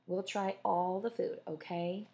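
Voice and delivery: slow, firm and pointed. Acted. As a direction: lay it down pointedly. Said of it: "Sylvie said pointedly".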